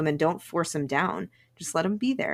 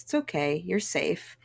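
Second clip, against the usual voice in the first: gentle reassurance; 3 dB quieter than usual. Retold or imitated. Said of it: "he goes".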